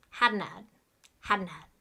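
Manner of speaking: "Hadn't had" run together as one quick unit; "Hadn't had" said quickly as one linked chunk; fast and linked. Shown as a demonstration. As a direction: blend "Hadn't had" fast, no gap between the words. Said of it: "we say it so fast together".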